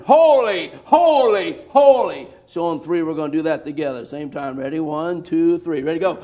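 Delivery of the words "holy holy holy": high, loud holy; preacher demonstrating the seraphs' cry; loud declaration. Shown as a demonstration. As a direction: proclaim it before the throne. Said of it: "they're declaring".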